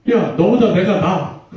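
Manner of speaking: put-on one-up a rival like a kid; petty bragging. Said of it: "치졸하게, 치사하게 막 싸웠을".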